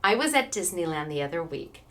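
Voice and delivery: low, subdued, holding back emotion; real welling-up, kept in check; getting emotional. Real, not acted. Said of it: "I'm getting so emotional".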